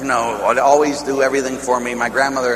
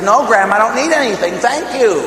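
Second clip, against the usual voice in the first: higher, louder mock protest; a higher mock insistent no; insistent refusal; 8 semitones higher, 3 dB louder than usual. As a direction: push back the offer, pitched up. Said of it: "she pushed the guy and says".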